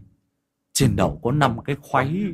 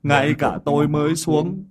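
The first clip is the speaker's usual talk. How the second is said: put-on higher, whiny childlike voice; like a child; 5 semitones higher, 4 dB louder than usual. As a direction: whine like a small child. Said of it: "mồm chu choa lên như đứa trẻ con". (ông Định qua xác ông đồng, giọng trẻ con nhõng nhẽo)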